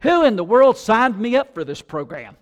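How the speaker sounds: first grader protesting to teacher, indignant; indignant child. Retold or imitated. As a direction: demand an answer, hands on hips.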